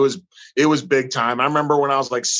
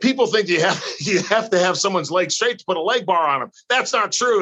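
put-on higher, fuller German accent, climbing up through the lecture; thick German accent; 6 semitones higher than usual. Quoting Carl Gotch to the host, a thick German accent. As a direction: lay the German accent on as the old coach explains. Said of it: "he's got this thick German accent".

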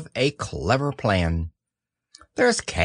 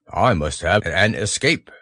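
Pooh voice; 5 semitones lower than usual. A narrator's reading. Pooh decides.

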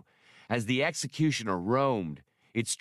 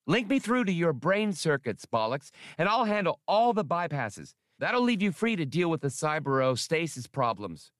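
high, squeaky eager computer voice; squeaky little droid; 7 semitones higher than usual. A narrator's reading. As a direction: pipe up like a tiny helpful machine. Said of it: "Max squeaked".

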